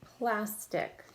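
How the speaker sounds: "Plastic" sounded out as plas, tic; split into syllables. Shown as a demonstration. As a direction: leave a gap between S and T in "Plastic". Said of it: "between the S and the T".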